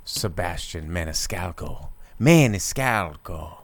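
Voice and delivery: MANISCALCO drawn out, each syllable leaned on; imitated name pronunciation. Host mimicking how Sebastian says his own surname, drawn-out pronunciation. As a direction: say Maniscalco slowly, stretching the SCAL. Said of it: "say it with whatever hi-, his way of saying it is".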